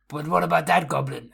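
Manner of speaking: lightly voiced dim-witted objection; stupid Krill. Krill points out the goblin, mildly dim-witted. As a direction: ask it like a slightly dopey companion. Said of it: "Krill's stupid and goes".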